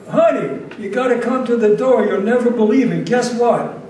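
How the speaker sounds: loud, high, thrilled call toward the back room; imitating a wife yelling for her husband to come to the door; excited calling out. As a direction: holler for him to come see, bursting with news.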